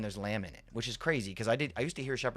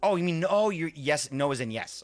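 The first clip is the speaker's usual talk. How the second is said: higher, louder surprised oh; sudden realization; 5 semitones higher, 7 dB louder than usual. Real, not acted. Streamer finally gets the chat's meaning, surprised. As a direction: catch on all at once.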